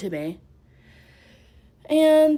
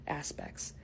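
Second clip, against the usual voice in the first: whispering; 5 semitones lower, 12 dB quieter than usual. Real, not acted. Trailing aside.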